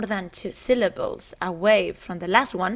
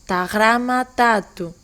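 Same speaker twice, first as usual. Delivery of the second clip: two stresses, on "grama" and "tatu"; teacher showing the stress pattern on "Ta grama tatu"; double stress demo. Shown as a demonstration. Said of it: "has two, uh, stresses".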